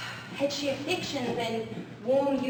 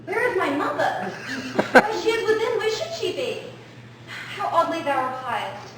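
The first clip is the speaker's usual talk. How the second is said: exasperated. Acted. Juliet exasperated, higher louder.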